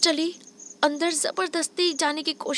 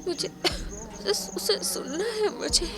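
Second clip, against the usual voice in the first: pleading blind woman; 2 semitones higher than usual. A narrator's reading. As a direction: gently plead to be allowed to meet him. Blind Wine pleads to meet him. (हल्के से विनती करती अंधी औरत)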